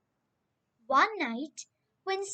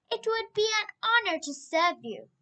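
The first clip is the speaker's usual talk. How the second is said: put-on child voice; 6 semitones higher, faster than usual. Young Samuel speaks.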